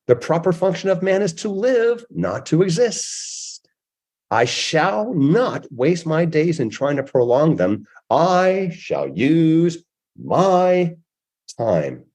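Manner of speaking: slowly, each word weighed; slow, deliberate. Shown as a demonstration. Closing the show with a quote, slow and deliberate. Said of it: "I'll say this slowly again".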